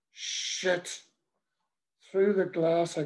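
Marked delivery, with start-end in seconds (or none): 0.1-1.0 whispered curse. Acted. Sees priest at door.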